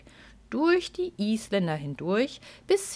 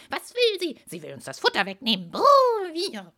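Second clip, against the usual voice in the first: agitated horses; 4 semitones higher than usual. Acted.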